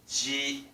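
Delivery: ji with air out the side of the mouth; side ji sound. Shown as a demonstration. Teacher explaining Japanese ji. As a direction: push ji out from the side. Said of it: "it comes out from the side".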